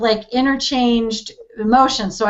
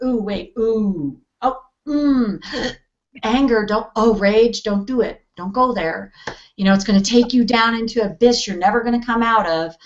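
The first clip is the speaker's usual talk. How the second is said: mock alarm. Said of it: "We're like".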